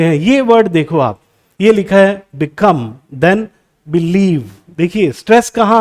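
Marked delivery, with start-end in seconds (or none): 2.4-2.8 become, stressed on COME; stress on second syllable. Shown as a demonstration. Teacher showing learners where stress falls, stress on COME in become. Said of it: "second syllable पे आ रहा है". 3.9-4.4 believe, stressed on LIEVE; stress on second syllable. Shown as a demonstration. Teacher showing learners where stress falls, stress on LIEVE in believe. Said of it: "second syllable पे आ रहा है".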